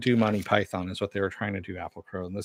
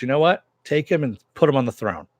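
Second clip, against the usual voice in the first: raised, louder and higher retold outburst; pissed off; 4 semitones higher, 4 dB louder, faster than usual. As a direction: snap the order out in mock irritation. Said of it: "gets pissed off at him and says".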